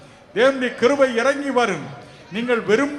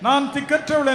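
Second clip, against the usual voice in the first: raised cry of helplessness; preacher voicing a pleading wail in words; voiced lament; 4 semitones higher, 3 dB louder than usual. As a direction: lament as one forsaken. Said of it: "என்று புலம்புவீர்களா?".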